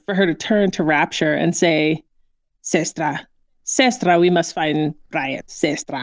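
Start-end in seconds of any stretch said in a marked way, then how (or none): 2.6-6.0 lightly mock East German accent. Host quoting the character calling for her sestra, mock East German accent.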